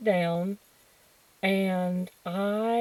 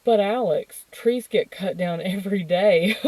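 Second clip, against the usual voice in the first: patronizing teacher; 4 dB louder than usual. Retold or imitated. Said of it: "the teacher was like".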